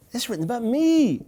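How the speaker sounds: high, ringing exclamation; excited and emphatic. Shown as a demonstration. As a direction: announce it like a discovery. Exclaimed repeat of the verse.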